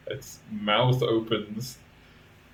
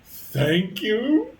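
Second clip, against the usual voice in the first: echo of hope voice; 12 semitones higher, 5 dB louder than usual. Acted. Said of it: "says the echo of hope".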